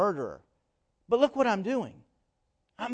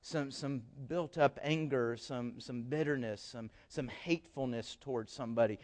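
quiet inner confession; 6 semitones lower, 10 dB quieter than usual. Retold or imitated. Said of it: "you're convicted".

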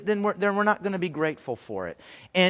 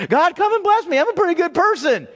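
mock self-satisfied prayer; 11 semitones higher, 5 dB louder than usual. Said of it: "I'm asking for God's blessing in my life".

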